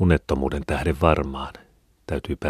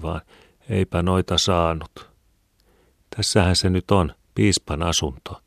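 lightly raised, earnest poor mother; a hint of a worried mother speaking; Mari's voice; 3 semitones higher, 4 dB louder than usual. Mari speaks in dialogue.

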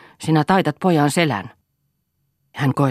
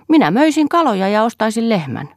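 put-on higher eager little boy; a boy spinning big plans; child's voice; 10 semitones higher, 6 dB louder than usual. A narrator's reading. Son boasting to his sister, lightly childlike.

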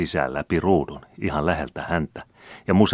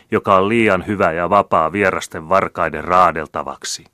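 loud, higher oratory; rousing speech; 4 semitones higher, 7 dB louder than usual. A narrator's reading. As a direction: whip up the crowd. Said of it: "jatkoi Bertelschöld".

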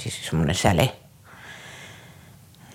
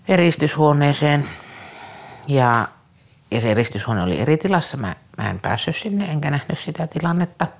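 ordinary delivery

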